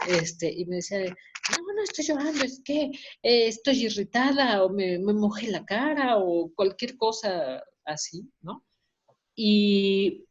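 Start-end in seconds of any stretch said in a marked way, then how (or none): 1.0-6.2 tag. Retold or imitated. Mother making excuses, acted.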